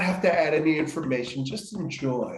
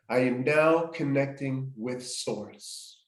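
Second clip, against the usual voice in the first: affirmation; slower than usual. Shown as a demonstration. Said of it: "I am saying or thinking the following sentence".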